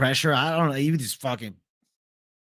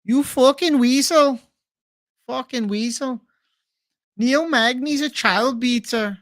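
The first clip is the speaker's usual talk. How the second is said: higher, slower insult in a changed voice; Ian Garry impression; 9 semitones higher, 3 dB louder than usual. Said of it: "another Ian Gary?".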